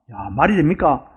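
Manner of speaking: normal talking voice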